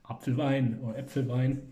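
Apfelwein and Äpfelwein said in German, AHP-fel-vine with a v sound; Apfelwein, Äpfelwein in native German; German pronunciation. Shown as a demonstration. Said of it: "as you call it in German".

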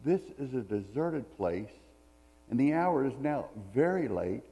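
measured reading of the Gospel passage; scripture reading. Acted. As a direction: read the passage steadily to the congregation. Pastor reads the Bible passage aloud.

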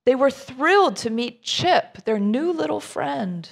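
lively rhyming read-aloud to a group; story narration. A narrator's reading. Reading a children's picture book to a group, lively storyteller voice. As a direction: bounce the rhymes for listeners.

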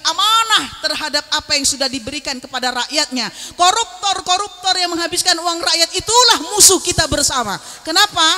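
rousing oratory with punched phrases; rally the crowd against a common enemy; fiery preaching. Real, not acted. (orasi dakwah yang membakar semangat)

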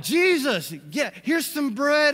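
excited disciples. Retold or imitated. Disciples eagerly offering Jesus bread, high excited voice. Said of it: "so excited".

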